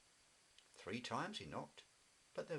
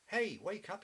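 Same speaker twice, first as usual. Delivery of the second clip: loud high call to wake a sleeping friend; shouting; 11 semitones higher, 6 dB louder than usual. Acted. Jackie shouting to wake Wibbly, loud and high. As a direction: shout him awake, higher and louder. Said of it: "he shouted".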